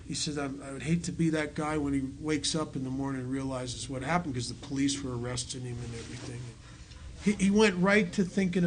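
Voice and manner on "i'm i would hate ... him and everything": loving, concerned. Retold or imitated. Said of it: "in a loving, concerned manner".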